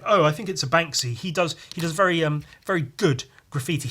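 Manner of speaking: posh gallery-goer. Retold or imitated. Onlooker at the Banksy piece, lightly mocked posh voice. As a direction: mimic a smug onlooker admiring the art. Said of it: "white twat in glasses going".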